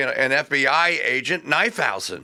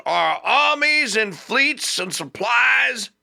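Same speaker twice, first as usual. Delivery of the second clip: orating Patrick Henry; 5 semitones higher, slower than usual. Retold or imitated. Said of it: "Henry says".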